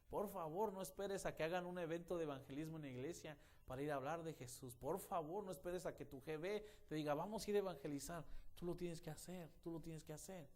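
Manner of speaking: high, loud urgent appeals; pleading preaching. Acted. Preacher urging listeners to evangelize, loud pleading. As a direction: beg the congregation to act.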